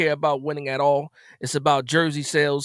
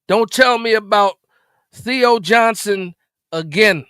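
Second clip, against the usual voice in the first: firm, louder warning; 4 semitones higher, 4 dB louder, slower than usual. Real, not acted.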